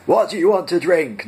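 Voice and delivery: high, loud scream. A narrator's reading. Guard screaming a drink order at prisoners: high, loud. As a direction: scream the question at them. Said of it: "number two screamed".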